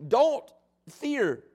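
lightly voiced angel, slow and deliberate; a hint of a heavenly messenger, spaced-out words; angel's proclamation. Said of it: "the angel speaks and says".

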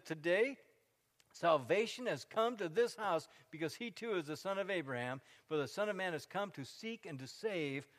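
Jesus' words boomed to the crowd; fervent quote. Acted. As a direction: ring it out like a preacher's proclamation. Quoting Jesus with rising fervour.

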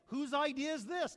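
a furious king demanding the culprit; angry king. Acted. King at the banquet demanding who planned it, angrily. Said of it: "What's he say?".

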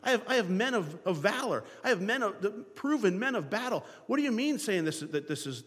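put-on incredulous king pressing a boy; a hint of an anxious king; imagined Saul. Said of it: "I can just imagine the conversation".

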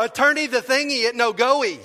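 mock panicked nonsense, loud and high; hammed-up confused babble; flustered gibberish. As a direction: babble like you can't name car parts. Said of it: "I go".

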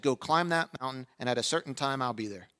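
soft, low and calm; quiet voice of Jesus. Retold or imitated. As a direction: gently give the promise. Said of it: "Jesus simply said".

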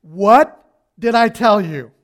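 loud, slow, scolding; mother scolding her fallen son. Retold or imitated. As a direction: drag it out like a cross mom. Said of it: "Not so many words".

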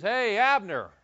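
mild mock call across the valley; light retold shout to Abner. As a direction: hail the enemy commander from afar, half-voiced. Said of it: "David's over there yelling".

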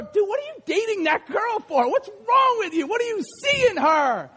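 playful acted needling; teasing friend. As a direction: rib a buddy in disbelief.

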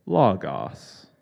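loud, low robotic announcement; computer-generated voice. Retold or imitated. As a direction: mimic a computer voice blasting from a speaker. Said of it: "a computer-generated voice go".

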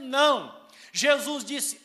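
normal talking voice

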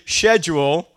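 SCHEDULE starting with "sh"; loud "SHED-jool"; British schedule. Shown as a demonstration. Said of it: "and I would say".

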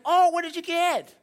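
high-pitched excited questioning; curious friends. Acted. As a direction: play an eager friend fishing for details. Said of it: "They're like".

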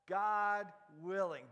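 God willing, slow and loud with God stressed; slow emphatic. Shown as a demonstration. Preacher leading the crowd in God willing, slow and loud. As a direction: lean hard on God in God willing. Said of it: "Can you say that".

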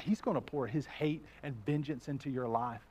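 low, soft, sinister tempter; enemy's voice. Acted. Preacher voicing the enemy to the congregation, low and soft. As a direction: murmur the lies low and soft. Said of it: "So his voice changes".

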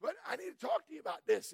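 high, soft soothing tone; deputy calming the mad trucker, high soft mock soothing.

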